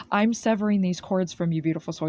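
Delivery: firm, smiling angel voice; firmly with a smile. Acted. Reader channeling Archangel Michael, firm and smiling. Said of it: "He's saying this firmly and with a smile".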